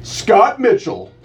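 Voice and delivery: slow, announcer-style slogan read; hammed-up radio promo voice. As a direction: pitch it like a station tagline. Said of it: "let's try this one".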